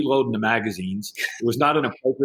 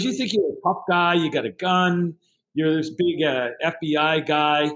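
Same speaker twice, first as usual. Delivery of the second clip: mock taunting yell; 3 semitones higher than usual. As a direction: goad him with a half-playful jeer. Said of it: "he starts yelling at me and calling me names".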